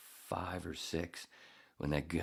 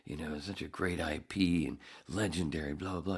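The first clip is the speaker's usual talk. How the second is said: mocking gushing actor; 3 semitones higher than usual. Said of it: "He keeps talking about how".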